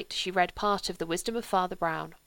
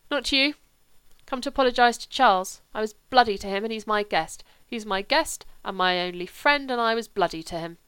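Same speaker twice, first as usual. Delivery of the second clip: put-on drunken insistence; 3 semitones higher, 7 dB louder than usual. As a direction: push past his mother, loud and drunk. Drunk Sebastian insists on apologising.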